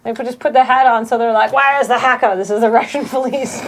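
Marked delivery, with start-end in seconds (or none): 1.5-3.6 put-on Russian police accent slipping into German; lightly put-on German-sounding accent; badly faked Russian officer, sounding German; botched Russian accent. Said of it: "that was more of a German accent".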